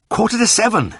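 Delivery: high and breathless with relief; happy panting. A narrator's reading. Vet jumping into the car, high and happily panting. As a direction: gasp it out gladly. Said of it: "I panted happily".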